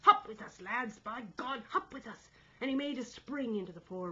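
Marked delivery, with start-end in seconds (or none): 0.0-2.3 higher, loud call to the lads; rally them with a shout; urgent rallying shout. A narrator's reading. Stubbins urging lads aloft, rallying shout. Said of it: "Stubbins' voice struck in".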